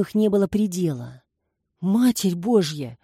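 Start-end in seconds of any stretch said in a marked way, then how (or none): 1.8-3.0 breathless blurt. A narrator's reading. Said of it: "задыхаясь, выпалила Баси".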